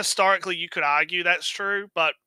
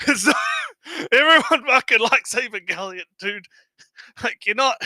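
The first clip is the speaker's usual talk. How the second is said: exasperated; 6 semitones higher, 6 dB louder than usual. Real, not acted. Exasperated rant about fans.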